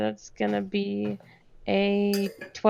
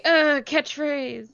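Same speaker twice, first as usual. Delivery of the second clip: slow, higher-pitched dying groan; falling in battle; 6 semitones higher, slower than usual. Acted. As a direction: drag it out like hammed-up last words. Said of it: "as I go down, I will say".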